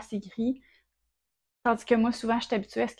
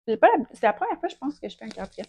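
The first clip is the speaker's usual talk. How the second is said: crunching chips; 5 dB louder, faster than usual. Real, not acted. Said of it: "je grignote en même temps".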